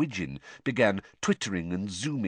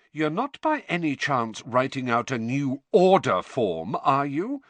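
shrewd; 6 semitones higher, 4 dB louder than usual. A narrator's reading. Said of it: "said Missus Weasley shrewdly".

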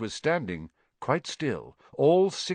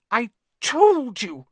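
high, slow, breathless reproach; gasped; 13 semitones higher, 6 dB louder, slower than usual. Acted. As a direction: gasp it out, loud and winded. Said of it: "Hermione gasped".

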